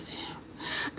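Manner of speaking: breathless whispered damn. Retold or imitated. Reacting to the real slap, a hushed whispered damn. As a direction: breathe it out in awe.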